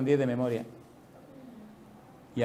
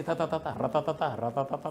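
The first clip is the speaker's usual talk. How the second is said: mock rapid chatter; 5 dB quieter than usual. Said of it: "porque él repetía así".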